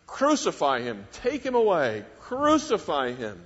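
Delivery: retold shout. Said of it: "they shouted".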